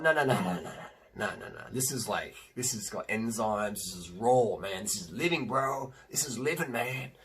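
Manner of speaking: lightly put-on SoCal dude accent. Protesting to a friend about sugarcane juice, in a SoCal accent. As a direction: imitate yourself with laid-back SoCal vowels. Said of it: "In my SoCal accent".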